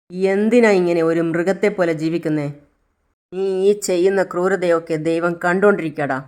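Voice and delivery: put-on a mother loudly cursing her child's kidnapper; furious accusation. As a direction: condemn him, calling on God.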